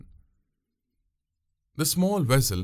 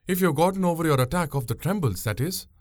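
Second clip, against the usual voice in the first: higher young woman's voice, mock concern; teasing; 7 semitones higher than usual. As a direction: needle him about his nerves. Pungureli teases him.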